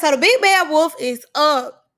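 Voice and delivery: loud, booming storyteller build-up; loud hype for the villain's entrance; dramatic announcement. Real, not acted. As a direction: announce it like a movie trailer.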